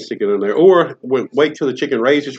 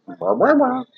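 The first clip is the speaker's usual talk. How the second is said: chicken noise; 9 semitones higher, slower than usual. Retold or imitated. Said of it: "chicken goes".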